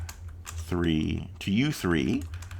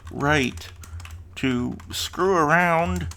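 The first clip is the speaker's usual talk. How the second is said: high, slow mock-indignant scolding; indignant hero; 8 semitones higher, much slower than usual. Player scolds the goblin leader, high mock outrage. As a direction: lay on the outrage, drawn out and squeaky.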